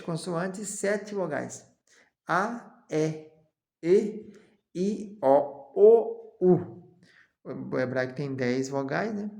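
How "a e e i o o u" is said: each vowel called out louder and louder; vowels rising to a shout; drilled vowels. Shown as a demonstration. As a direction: build the vowels up to a loud O, U. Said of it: "vowels recited".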